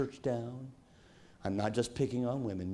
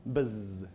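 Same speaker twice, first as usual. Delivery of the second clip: buzz sound. Shown as a demonstration. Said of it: "Another one is this".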